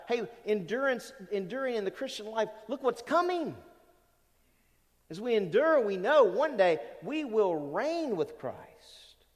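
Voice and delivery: rousing encouragement. Acted. Preacher voicing Paul's thoughts on enduring, rousing encouragement. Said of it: "how incredibly encouraging must it have been".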